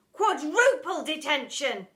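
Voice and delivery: loud, slow, laughing verdict; gloating teacher. Acted. Miss Seeth punishing pupil, gloating. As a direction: relish the bigger number.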